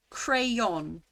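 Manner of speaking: "Crayon" in two syllables, CRAY-on; two-syllable pronunciation. Shown as a demonstration. The speaker demonstrating her own "Crayon", two clear syllables. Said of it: "two syllables".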